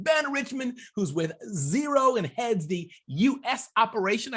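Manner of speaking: punchy, animated show-opener delivery; podcast intro. Real, not acted. Host welcoming the audience to the podcast, punchy intro. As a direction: sell the show with big swings of pitch and emphasis.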